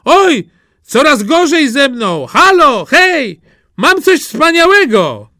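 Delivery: high, bursting with glee; excited Jaś. Acted. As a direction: show off a treasure like a proud child. Jaś shows off his third find.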